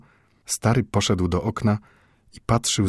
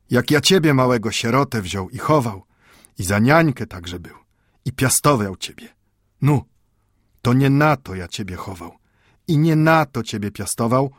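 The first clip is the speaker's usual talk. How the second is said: higher, louder reproach in broken Polish; angry old grandfather; 4 semitones higher, 3 dB louder than usual. Acted. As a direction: scold the boy out of hurt love. Mendel scolds the boy.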